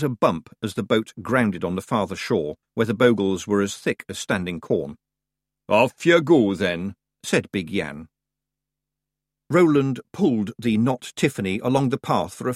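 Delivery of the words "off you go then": gruff little Scottish pixie; Scottish accent. Acted. Feegle voice.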